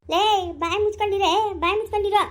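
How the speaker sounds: elder snaps at the daughter-in-law to shut up; angry scolding. Acted. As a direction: bite it out to silence her. Family quarrel, telling her shut up.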